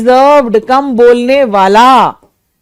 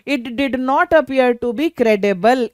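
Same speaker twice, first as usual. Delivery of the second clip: slow dictation; 4 dB quieter, much slower than usual. Shown as a demonstration. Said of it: "तो हम क्या करें".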